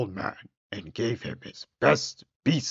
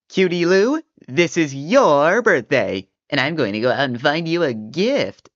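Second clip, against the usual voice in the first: put-on high, loud old man; 5 semitones higher, 5 dB louder than usual. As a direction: sing out fondly to a daughter. Old man speaks to daughter.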